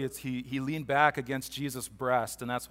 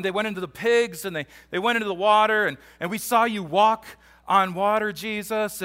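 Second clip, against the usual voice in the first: higher, louder, incredulous disciple; acted disbelief; 5 semitones higher, 5 dB louder than usual. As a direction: blurt it out as an astonished follower.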